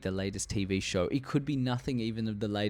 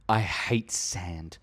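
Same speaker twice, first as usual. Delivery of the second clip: slow, drawn-out mock movie line; Anakin; 3 semitones lower, 4 dB louder, much slower than usual. Groom quoting the film at his wedding, slow mock delivery. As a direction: quote the line very slowly, hamming it a little. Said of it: "where Anakin and Padme stood and go".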